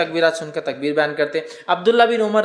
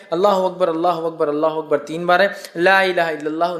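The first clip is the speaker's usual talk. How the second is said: measured, devout chanting of the takbir; takbir recitation. Shown as a demonstration. Teacher showing listeners the Eid takbir, devout chant. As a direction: recite each Allahu akbar steadily, as in the mosque. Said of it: "یہ سب سے common ہے".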